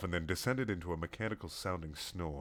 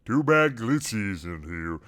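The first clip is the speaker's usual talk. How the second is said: exclaiming; slower than usual. Acted. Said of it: "exclaimed Alana".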